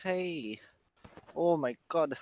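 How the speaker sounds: breathless after a hard race; out of breath. Real, not acted. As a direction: talk while catching your breath. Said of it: "I'm still pretty much out of breath from that".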